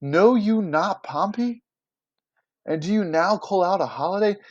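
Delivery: theatrical reproach without shouting; understated anger. Acted. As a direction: challenge them, mildly outraged. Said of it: "just super angry".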